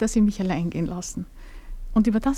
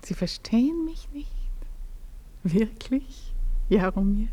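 whisper; 5 dB quieter, slower than usual. Acted. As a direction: ask it in a surprised whisper. Hushed incredulous question. (geflüsterte, ungläubige Frage)

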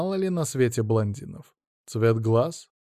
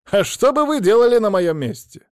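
indignant challenge; 10 semitones higher, 7 dB louder than usual. Acted. Monty confronting Maria.

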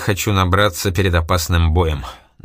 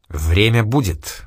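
ordinary delivery

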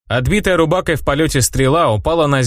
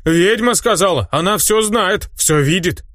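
slow, higher insistent villager voice; awed villager; 7 semitones higher, slower than usual. Acted. Peasant defending the witch's word, high insistent. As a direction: invoke the witch's authority.

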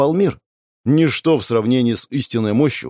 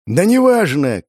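loud, raised-pitch retort; shouting back; 5 semitones higher, 4 dB louder than usual. Acted. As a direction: shout it back over the din. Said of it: "крикнул я в ответ".

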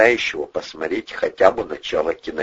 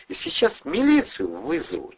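high, thin threat to call the police; shrill threat; 10 semitones higher than usual. A narrator's reading. Nurse threatening Andrei with police, high and shrill. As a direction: squeak out the threat.

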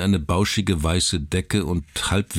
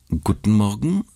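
friendly; 5 semitones higher, 3 dB louder than usual. Acted. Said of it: "sagte sie und blickte freundlich".

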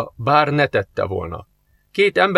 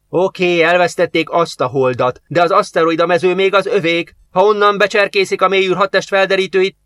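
put-on higher, louder, indignant young lad; young mechanic defending his bet, higher and louder; annoyed young man; 6 semitones higher, 4 dB louder than usual. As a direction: argue your point like a stung kid.

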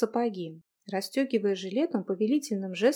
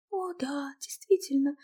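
sarcastic whisper; 5 semitones higher than usual. Acted. Girl mocks him sarcastically.

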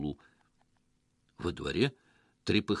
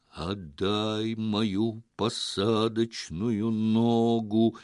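«ногу» stretched in a very slow eerie moan; slow wailing alien moan; moaning ghostly voice; much slower than usual. Acted. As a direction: groan it like a ghost from the attic. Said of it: "простонало уже где-то на чердаке".

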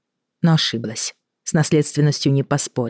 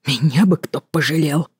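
whispered wail. Acted. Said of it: "шёпотом завопил Роман".

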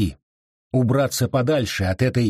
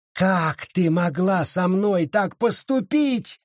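mild shout; 6 semitones higher, slower than usual. Acted. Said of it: "закричала Сара".

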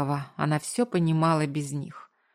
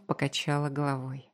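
ordinary delivery, nothing marked

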